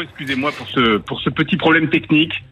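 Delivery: tinny, boxy phone line; like talking inside a tin can; tin can sound. Real, not acted. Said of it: "vous avez l'air de parler dans une boîte de conserve".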